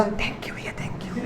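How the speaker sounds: breathy unvoiced thank you, close and soft; whisper in the ear. Passenger whispering thanks into the porter's ear, whispered. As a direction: whisper it into his ear like a secret. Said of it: "और कान में बोला".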